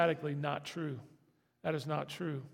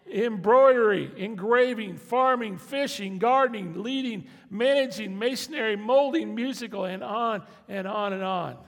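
louder, punching out each ability in a list; preaching at full force; 4 semitones higher, 10 dB louder than usual. Acted. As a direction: rattle off each gift like a rallying call.

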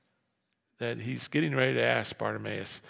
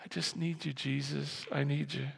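softer, earnest appeal; quiet plea; 9 dB quieter than usual. Retold or imitated. Beggar asking only Jesus, soft earnest plea. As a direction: drop to a hushed private plea. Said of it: "He just said".

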